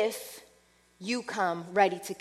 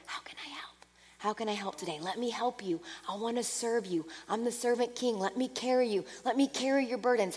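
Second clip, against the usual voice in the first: soft, hushed offering of help; Holy Spirit whispering to the listener, soft and hushed; 6 dB quieter than usual. Pretend. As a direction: murmur it tenderly, barely voiced. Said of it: "constantly whispering to you".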